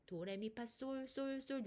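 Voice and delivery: scale steps up to a steady sol; showing sol pitch. Shown as a demonstration. Teacher giving learners her sol height, pitched demonstration. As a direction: climb the scale, then repeat the top note. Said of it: "저의 솔 높이는".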